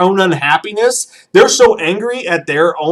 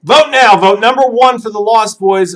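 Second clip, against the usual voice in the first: rally the chat to vote; vote announcement; 3 semitones higher than usual. Acted. Host opens the vote loudly.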